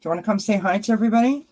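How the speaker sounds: high, fast coaxing voice; coaxing pet talk. Real, not acted. Owner coaxing cat to greet viewers. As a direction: coax the cat gently.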